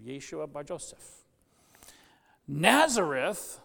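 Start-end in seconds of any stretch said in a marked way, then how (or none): 2.5-3.6 louder, slow incredulous exclaim. A narrator's reading. Bartholomew scoffing at Philip's news, exclaimed. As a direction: Nazareth flung out in disbelief. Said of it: "exclaimed Bartholomew".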